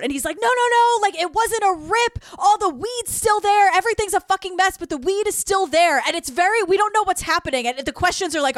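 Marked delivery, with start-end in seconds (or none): 0.4-7.7 mock panic, yelling that the weed is still there; freaking out. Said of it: "So this guy is freaking out".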